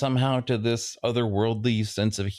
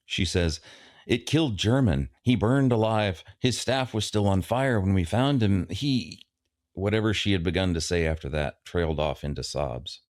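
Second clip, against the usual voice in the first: story reading. A narrator's reading. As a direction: narrate the passage as a reader. Reads the novel aloud.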